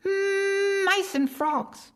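very high mosquito voice, slow and deliberate; slow and clear. Acted. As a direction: spell out "mice and frogs" slowly and clearly. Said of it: "repeated as clearly as she could".

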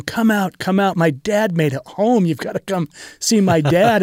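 high, eager calling out to the neighbors; imitating a thrilled little boy yelling come out; excited child calling out. Son calls the neighbors to see his dad home, high and excited.

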